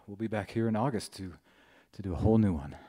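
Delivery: short of breath after playing; puffing between phrases after a gig. Real, not acted. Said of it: "I'm out of breath".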